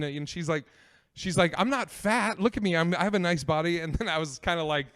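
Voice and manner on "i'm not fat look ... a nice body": defensive date voice. Retold or imitated.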